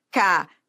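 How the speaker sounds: Cadeira split up, DEI held long; stress on penultimate syllable. Shown as a demonstration. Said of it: "a sílaba tônica é a penúltima sílaba".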